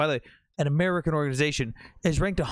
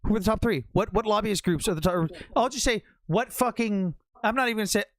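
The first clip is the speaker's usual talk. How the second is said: heated demand; 5 semitones higher than usual. Real, not acted. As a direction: demand the answer now. Pressing fleeing caller.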